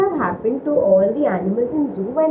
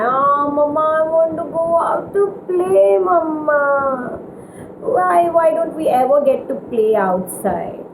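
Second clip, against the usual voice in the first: moaning; 5 semitones higher than usual.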